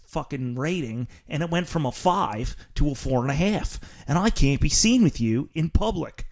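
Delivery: put-on lightly done Delco accent; a hint of suburban Philly Delco friend. Friend tells host he can't be seen with him, light Delco accent. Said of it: "that's like a Delco accent".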